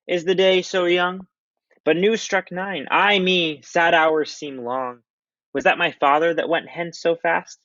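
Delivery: high, slow, drawn-out lovesick voice; mopey Romeo. Acted. Reading Romeo to the class, high and slow and lovesick. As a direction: sigh each line like a heartbroken boy. Reads Romeo's lines aloud.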